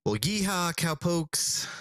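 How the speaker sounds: high, hammed-up cowboy yeehaw. The speaker giving his cowboy catchphrase, hammed-up yeehaw. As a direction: whoop it like a cartoon cowpoke. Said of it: "give us your best cowboy catchphrase".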